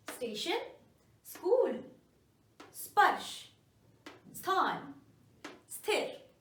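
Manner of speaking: clear, separate words for students to repeat; model pronunciation drill. Shown as a demonstration. Teacher reading the drill list for students, clearly. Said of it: "पीछे बोल कर देखिए".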